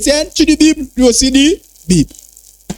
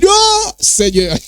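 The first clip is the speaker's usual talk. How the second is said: shocked exclamation; 9 semitones higher, much slower than usual. Real, not acted. Shocked by strange rituals.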